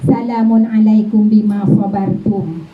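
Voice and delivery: slow, chanted "Salamun alaikum bima sabartum", drawn out like recitation; recited greeting. Shown as a demonstration. Voicing the angels greeting believers in paradise, in a slow, chanted way. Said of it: "repeated plainly after".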